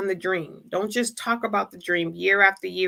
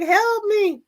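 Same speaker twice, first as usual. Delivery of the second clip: high, loud, hammed-up plea for help; mock cry for help; 12 semitones higher, 5 dB louder than usual. Dreamer who ignored the warning, calling out in mock panic. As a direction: yelp it like you're mid-fall. Falling off the cliff, pleading.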